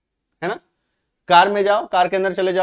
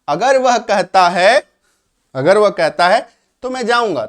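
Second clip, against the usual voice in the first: loud example; 5 dB louder than usual. Shown as a demonstration. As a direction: stress the example for the class. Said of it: "if का मतलब अगर या यदि".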